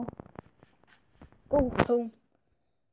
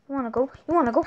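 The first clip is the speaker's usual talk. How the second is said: escalating taunt; 2 semitones higher, 5 dB louder, much faster than usual. Real, not acted. Taunting, getting louder.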